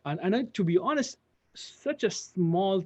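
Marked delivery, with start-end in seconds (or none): none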